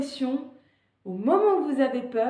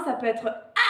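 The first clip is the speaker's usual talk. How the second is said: light demo cry. Shown as a demonstration. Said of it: "le cri que vous voulez".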